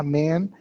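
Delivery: MEN with a clear E; plural E vowel. Shown as a demonstration. Teacher recalling the plural rule, E vowel in men. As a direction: say men with only the E sound. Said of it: "o mesmo que você fez".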